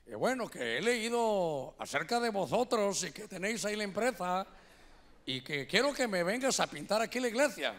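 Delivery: imitated formal Castilian Spanish; Castilian Spanish accent. Church manager phones the painter, Castilian Spanish accent. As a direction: put on a Spaniard's Castilian lilt.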